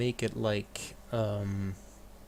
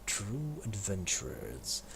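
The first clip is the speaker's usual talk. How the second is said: grand proclamation. Acted. Welcoming followers as adventurers.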